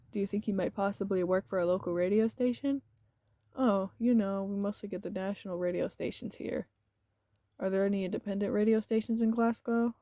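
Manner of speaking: steady, even reading of the game text; story narration. A narrator's reading. Streamer reading the visual novel to chat, steady narration. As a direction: narrate the scene evenly for viewers.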